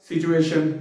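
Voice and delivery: सिचुएशन with a 'ch' sound, 'si-chu-ay-shun'; common mispronunciation. Shown as a demonstration. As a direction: say सिचुएशन with a clear ch. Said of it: "इसको बहुत सारे लोग पढ़ते हैं". (सिचुएशन में 'चे' की आवाज़)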